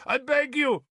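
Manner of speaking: high, desperate plea; pleading. Acted. Bishop begs Arthur to stay, high and desperate. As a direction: beg with everything.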